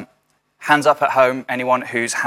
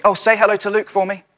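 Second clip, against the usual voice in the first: mock sweet greeting; 11 semitones higher, 4 dB louder than usual. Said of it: "people go to me".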